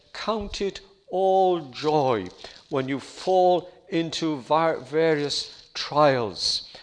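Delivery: each word of "Count it all joy" drawn out slowly; slow quoted verse. Shown as a demonstration. Preacher reading the verse to the congregation, very slow and weighty. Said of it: "He said those words".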